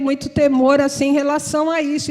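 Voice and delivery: normal talking voice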